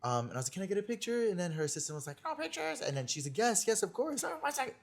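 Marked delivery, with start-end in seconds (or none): 0.5-1.3 high sweet ask for a picture; high polite request. Retold or imitated. Asking Kris Jenner for a photo, high eager voice. 2.2-2.8 high, soft mock assistant refusal. Her assistant blocking a photo, high mock refusal. 3.4-4.7 high airy imitation of Kris Jenner; mock gracious Kris. Kris Jenner allowing the picture, high airy imitation.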